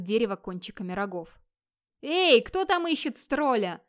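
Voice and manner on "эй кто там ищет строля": high, slow challenging holler; drawn-out, raised-pitch challenge; full-voiced shout. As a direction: call out loudly to someone far below. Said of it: "крикнул Вигмар во весь голос".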